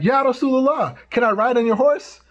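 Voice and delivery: put-on girl's request. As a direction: ask sweetly like a young girl.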